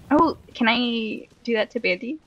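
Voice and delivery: ordinary delivery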